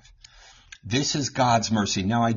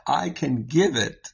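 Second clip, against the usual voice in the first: mock-stern parent; 4 semitones higher than usual. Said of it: "I would say to my kids".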